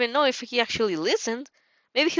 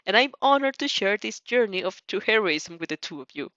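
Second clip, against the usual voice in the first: passionate speech; 3 semitones higher than usual. Acted. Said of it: "his passionate speech".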